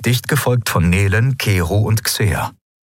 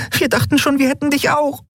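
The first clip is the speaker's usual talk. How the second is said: much higher, worried voice; relieved young woman. Acted. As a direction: pour it out in relief. Nelen relieved at Endriel waking. (Nelen erleichtert zu Endriel, viel höher)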